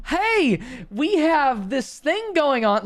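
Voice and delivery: high, drawn-out mock solicitor call; campus recruiter pitch. Student at a table hailing a passer-by, high mock pitch.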